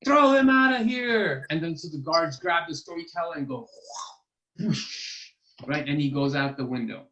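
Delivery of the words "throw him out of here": loud, high command to throw him out; an angry king dismissing him; loud royal order. Acted.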